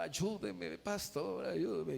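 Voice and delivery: mildly mock-crying appeal for help; imitated tearful plea. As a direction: plead as if weeping, lightly acted. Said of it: "este hombre le decía llorando y lloraba".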